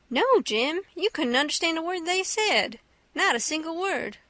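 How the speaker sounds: a hint of a schooling tone; Huck explaining to Jim. Voices Huck in dialogue.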